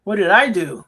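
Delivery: squeaky confused character voice, laughing between lines; high mock voice. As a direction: pitch it way up like a dazed cartoon.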